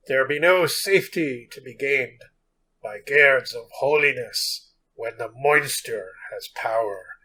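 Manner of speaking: slow, solemn olden-times reading; spooky archaic voice. Acted. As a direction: intone it like an old ghost tale. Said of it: "that was my, my spooky voice. My spooky, archaic voice".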